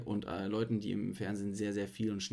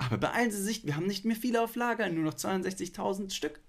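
high, fast sales urgency; urgent teleshop pitch; 9 semitones higher than usual. Pretend. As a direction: hurry them like a TV seller. (drängender Verkaufston)

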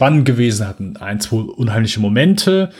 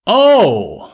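high, loud "oh" of sudden shock; loud surprised oh; 9 semitones higher, 5 dB louder than usual. Retold or imitated. Podcaster imitating his girlfriend's reaction to the twist, loud surprised oh. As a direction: imitate a loud gasp-like "oh", pitched well up. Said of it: "es kam ein lautes".

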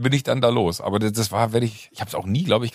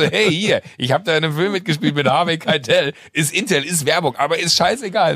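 mock social post; 5 semitones higher than usual.

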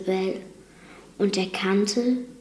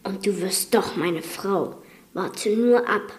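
angry. Acted. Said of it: "rief er böse".

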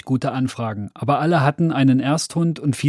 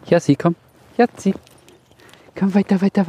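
hoch und laut rufen; Hund rufen; 6 semitones higher than usual. Real, not acted. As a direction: den Hund laut heranrufen. Hund Jasper wird gerufen. (hoher lauter Hunderuf)

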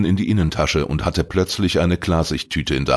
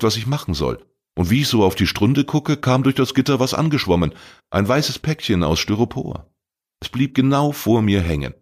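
put-on higher young voice, eager and pleading; an anxious boy swearing he's innocent; teenage boy Arne; 3 semitones higher than usual. Arne pleads his innocence to Glattberg, higher eager young voice. Arne's long excuse.

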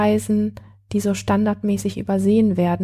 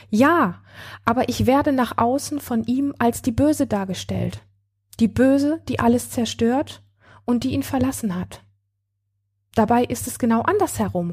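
angry; 3 semitones higher than usual. Acted. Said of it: "Sie stampft wütend auf".

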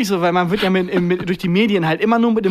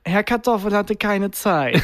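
slow, cold Bond villain greeting; mock Bond villain; 3 semitones higher, slower than usual. Imitating the driving examiner as a Bond villain, slow. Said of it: "redet wie ein Bond-Bösewicht".

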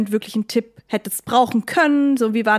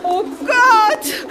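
high voice breaking into nervous laughs; scared laughing; 10 semitones higher than usual. Acted. Warning her friend that dogs hear well, scared laughter. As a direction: laugh through the fear. Hiding from dead animals.

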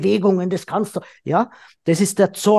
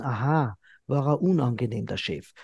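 soft, low, unmoved reply that gets softer; unbothered calm; 6 semitones lower, 7 dB quieter than usual. Retold or imitated. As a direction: brush it off quietly like a disinterested husband. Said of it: "reagiert nur mit ganz ruhigem Gewissen". (gleichgültig ruhig, leiser werdend)

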